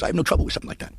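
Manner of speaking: high-pitched old priest impression; high comic old-man voice; Jimmy Stewart crossed with Elmer Fudd. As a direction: imitate an old priest giving his verdict. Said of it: "a cross between Jimmy Stewart and Elmer Fudd".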